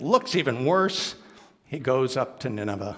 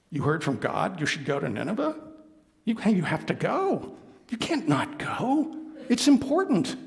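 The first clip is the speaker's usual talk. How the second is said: insistent partner; 3 semitones higher than usual. Acted. Partner urging Jonah.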